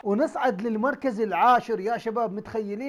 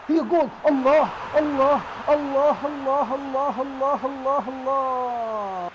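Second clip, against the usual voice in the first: loud, stretched Allah, Allah; goal celebration; 4 semitones higher, 5 dB louder, much slower than usual. Real, not acted. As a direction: cheer the goal like a fan. His team scores a goal. (احتفال متحمس بالهدف)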